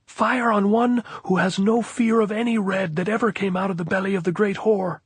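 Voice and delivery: high, loud raging taunt held to the end; long furious shout. A narrator's reading. Captain taunting the hilltop, long raging shout. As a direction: bellow it up the slope. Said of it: "This last was quite a long sentence to shout".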